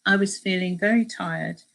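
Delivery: measured travel memoir reading; story narration. A narrator's reading. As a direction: read the account aloud to listeners. Reads a book extract aloud.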